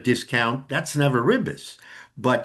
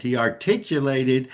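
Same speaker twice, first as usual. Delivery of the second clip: articulated given deliberate emphasis; heavy accent on ARTICULATED. Shown as a demonstration. Teacher repeating the key term for students, emphasis on articulated. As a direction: lean on the word "articulated". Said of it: "I'm saying that with a heavy accent".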